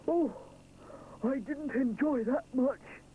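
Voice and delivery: slow, weary grumble; hot and fed up; complaining. A narrator's reading. Edward just out of the hot oven, mild complaint. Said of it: "he complains".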